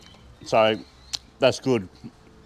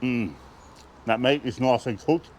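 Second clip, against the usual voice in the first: talking while chewing; words round a bite of food; mouth full. Real, not acted. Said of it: "I shouldn't talk my mouth full".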